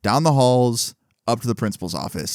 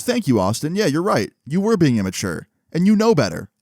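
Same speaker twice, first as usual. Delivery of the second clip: higher, emphatic mock-principal reproach; stern admonishment; 6 semitones higher than usual. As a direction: agree pointedly, then reproach them. Principal retold admonishing the boys.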